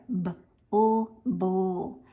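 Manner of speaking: B and U said apart, then joined as "bull"; sounds blended. Shown as a demonstration. Teacher showing how to blend sounds together, sounded out then blended. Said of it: "I'll blend them together".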